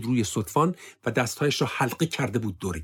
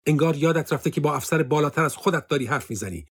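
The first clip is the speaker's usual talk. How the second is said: raised, warning officer; stern reprimand, pitched higher; pulling rank; 5 semitones higher, 3 dB louder than usual. Acted. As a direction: remind him who outranks him.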